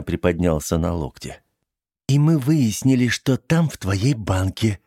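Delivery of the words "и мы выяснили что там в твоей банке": sweet voice. Acted. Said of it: "сладким голосом закончила она".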